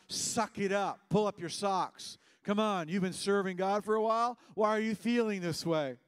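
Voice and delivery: acted pull-yourself-together rebuke; scolding inner thoughts. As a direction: chide like a tough, impatient coach. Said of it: "They're not thoughts you can do better".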